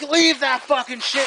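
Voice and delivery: high, slow, emphatic command; retold angry order. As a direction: mimic an exasperated uncle giving orders. Uncle's order in a retold quarrel.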